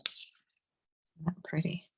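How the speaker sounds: slow admiring whisper. Real, not acted. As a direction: breathe it out slowly, in awe. Admiring finished stamp.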